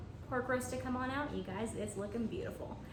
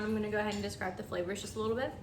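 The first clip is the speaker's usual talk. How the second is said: talking through a mouthful; words round a bite of food; mouth full; faster than usual. Real, not acted. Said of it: "I don't mean to talk with my mouth full".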